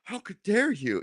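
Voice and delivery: imitating a huffy, indignant reply; mock indignant. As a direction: play the wounded partner, half-hearted. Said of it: "they get all indignant".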